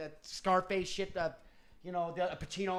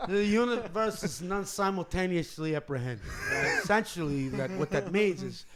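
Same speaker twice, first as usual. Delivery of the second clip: Robert Anton Wilson impression; 3 semitones lower than usual. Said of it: "esoteric riff of all time".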